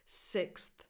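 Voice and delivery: "Sixth" with th following the ks; full ks-th cluster in "Sixth"; th after X. Shown as a demonstration. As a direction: finish "Sixth" on a clear th. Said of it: "say the T H after the X sound".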